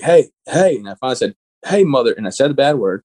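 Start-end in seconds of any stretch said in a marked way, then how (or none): 0.0-0.8 mild, higher-pitched mock yell; retold yell. Wounded sergeant calling to the flight medic, retold yell. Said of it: "I'm yelling at the flight medic". 1.7-2.1 mild mock yell; retold yell. Wounded sergeant cursing at the flight medic, retold yell. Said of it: "I'm yelling at the flight medic".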